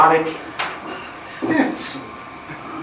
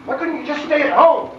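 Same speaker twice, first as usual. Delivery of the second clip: higher, exasperated scolding; scolding the brats; 6 semitones higher than usual. Acted. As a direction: tell off the kids who tailed you. Father scolds children following him.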